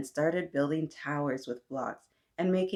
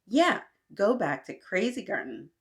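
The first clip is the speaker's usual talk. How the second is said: mock yell; 4 semitones higher, 3 dB louder than usual. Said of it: "yelled out to him".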